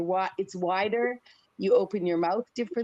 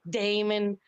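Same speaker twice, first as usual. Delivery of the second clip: Miss Becca voice; 3 dB louder than usual. Retold or imitated. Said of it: "I would come out as Miss Becca".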